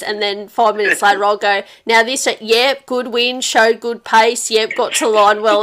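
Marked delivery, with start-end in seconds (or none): 1.9-5.6 mocking Dad's stock reply. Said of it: "he's just got the same answer wrote down".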